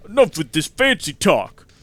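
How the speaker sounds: loud, high bellowing threat; thug's shout. Acted. Street thug threatening the hero, loud shout. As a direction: yell it like a brawler itching to fight.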